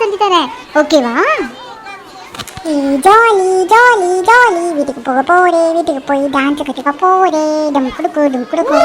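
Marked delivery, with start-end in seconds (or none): 2.7-8.8 put-on delighted kid cheering about dancing at home; excited child cheer. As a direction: bounce with kid glee. Little sister cheers about going home.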